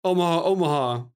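shouted audible call at the line; quarterback calling cadence. Retold or imitated. Play call after "let's go.

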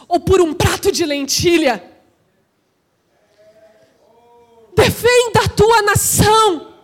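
impassioned, shouted exhortation; full-force preaching. Real, not acted. Preacher urging the church to defend its nation, full force. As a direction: ring each command out to the congregation.

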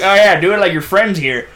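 lightly voiced old man, offhand advice to a student; a hint of an elderly teacher pointing at a screen. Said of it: "He sounds like an old man".

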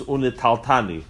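unitaltani as "u-ne-tal-TA-ni"; correct pronunciation. Shown as a demonstration. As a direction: say unitaltani with "tal" closed, then a hard "t". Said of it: "the way it's supposed to be is".

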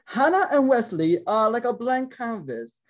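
slow, put-on British accent; drawn-out British narration, lightly done. Host shows off the British voice reading about Hannah and Wesley, mock British accent. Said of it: "I do my British voice".

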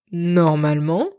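"normalement" drawn out slowly; stress on NORMALEMENT. Real, not acted. Hinting the tailor got it wrong, stressing "normalement". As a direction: lean slowly on the word "normalement". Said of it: "J'insiste sur le normalement".

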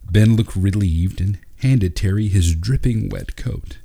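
ordinary delivery

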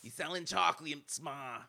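drawn-out, high quote from a cartoon; mock scream-out. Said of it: "just scream out".

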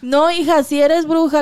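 a hint of a mother yelling it; mock shouting mother. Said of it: "llegó su mamá gritando".

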